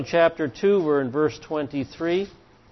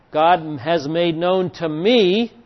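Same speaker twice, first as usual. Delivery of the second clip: slow quote landing on a drawn-out "me"; stress on "me"; 3 semitones higher, 4 dB louder, slower than usual. Shown as a demonstration. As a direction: lean on "me" at the end, stretched and raised. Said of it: "notice that's the singular".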